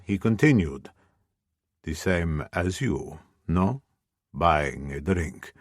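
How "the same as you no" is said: deep male voice. Acted. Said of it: "A deep male voice".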